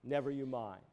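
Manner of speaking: the Lord's words repeated as a dying hush. Retold or imitated. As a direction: let the repeat fade to a hush. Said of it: "The Lord said".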